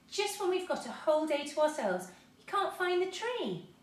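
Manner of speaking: high, slowing tearful lament; girl disappointed, close to tears; almost crying. A narrator's reading. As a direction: let the voice wobble toward tears. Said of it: "almost crying".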